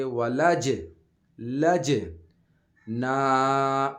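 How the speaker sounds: جیم in ولج bounced with a jolt; qalqalah on jeem. Shown as a demonstration. Teacher demonstrating qalqalah to students, bounced jeem. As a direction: give the ج in ولج a sharp echoing bounce. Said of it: "تو یہاں اس پہ ہم قلقلہ کریں گے،".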